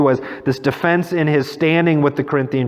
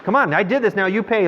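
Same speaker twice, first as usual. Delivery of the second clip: higher, insistent mock demand; demanding street artist; 6 semitones higher than usual. Artist demanding payment from a tourist, insistent. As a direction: imitate a hawker pressing for money. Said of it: "And they go like this".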